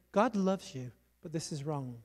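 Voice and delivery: soft, low-key retold rebuke; gentle correction. Evangelist telling the girl she is loved, gentle correction.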